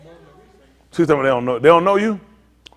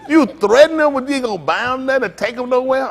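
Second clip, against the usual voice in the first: mock outrage; 9 semitones higher than usual. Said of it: "I said".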